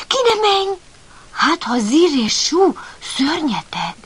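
a touch of fear, high and urgent; frightened warning. Acted. A hint of a scared puppy holding back his brother. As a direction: pull him back with a scared plea. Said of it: "Madzag ijedten visszahúzta".

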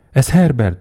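high, loud desperate shriek. A narrator's reading. Mother hears knocking, shrieks her son's name. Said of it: "sikított az anya".

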